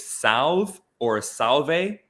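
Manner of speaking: Salve drawn out, first one way, then the other; two pronunciations. Shown as a demonstration. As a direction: say Salve slowly both ways, unsure which fits. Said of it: "I'll pronounce it both ways".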